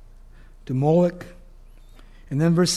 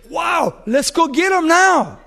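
thrilled king; 9 semitones higher, 7 dB louder, slower than usual. Acted. King Saul cheers after the kill.

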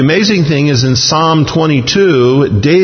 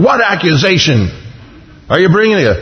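aggravated, pitched-up demand without much volume; half-yelled irritated question; mild yell; 5 semitones higher than usual. Acted. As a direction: snap it like an annoyed governor. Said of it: "I think he kinda yelled at him".

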